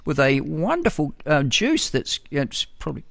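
high-pitched, put-on approving voice; mock nice talk. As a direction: parrot the approved message in a high, sugary mock voice. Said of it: "So you've got to say nice things".

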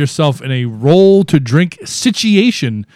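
mock radio announcer. Host announces a roll to drink situation, mock radio announcer. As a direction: announce it like a radio game rule, stretching the last phrase.

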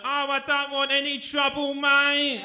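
high, loud, put-on English voice backing off; scared English guy. Wee English guy begging the Glaswegian off, scared high voice. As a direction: play the frightened wee Englishman.

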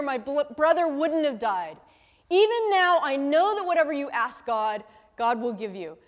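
gently lifted scripture read. Acted. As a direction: read the passage out to the class. Reads the Gospel passage aloud.

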